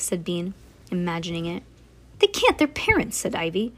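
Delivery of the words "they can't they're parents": high-pitched objection; high, insistent child's protest. A narrator's reading. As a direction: object in a much higher voice. Ivy objects to Bean.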